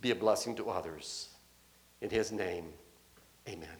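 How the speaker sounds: slow, hushed pastoral benediction; solemn closing blessing. Acted. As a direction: bless them gently, word by word.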